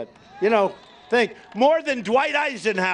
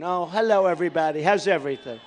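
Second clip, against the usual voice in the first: lower, sugary polite greeting, mocking a nice tone; 5 semitones lower, faster than usual. To the crowd, sarcastically showing the nice tone he is supposed to have. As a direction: sarcastically play the gentle candidate. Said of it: "I'm supposed to have a nice tone".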